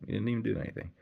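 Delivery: high, fast mock disbelief; mock incredulous. Reacting to a stranger's needless sorry, lightly voiced mock disbelief. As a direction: act baffled at a needless apology. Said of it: "I'm like".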